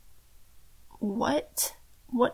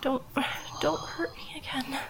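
frightened whisper; 5 dB quieter than usual. Acted. Captive whispering pleas.

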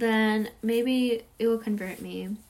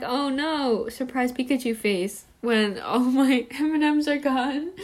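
laughing mock dismay; 2 semitones higher, 3 dB louder than usual. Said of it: "And I'm like".

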